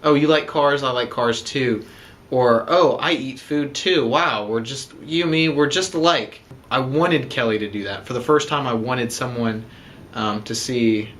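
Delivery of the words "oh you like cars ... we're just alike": mocking gush. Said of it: "they'll say".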